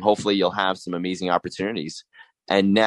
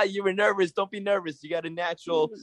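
laughing, pitched up high; 12 semitones higher, 3 dB quieter than usual. Real, not acted. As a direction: chuckle through the words. Host laughs at nervous caller.

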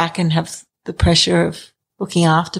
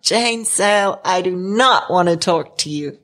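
light imitation of an American doctor; American accent, deadpan teasing. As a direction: put on a mild American accent, mock-refusing. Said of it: "he's got an American accent".

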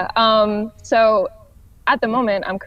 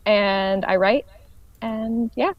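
echoey audio. Real, not acted. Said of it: "My apologies for the echoey audio".

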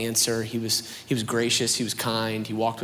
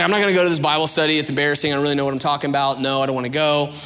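put-on fast, louder teen whine; whiny refusal; 3 semitones higher, 6 dB louder, faster than usual. Young Reed dodging Gus's Bible study, fast sulky whine. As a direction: rattle off excuses like a sulky teen.

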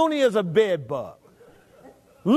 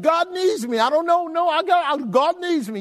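high-pitched, hurried mimicry of a bragging leader; mock a self-important man, pitched well up; mocking Trump boast; 8 semitones higher than usual. Preacher mimics the president boasting about God, high and mocking. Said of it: "now he's acting like".

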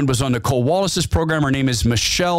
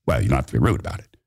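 offended member; 11 semitones lower, much faster than usual. Acted.

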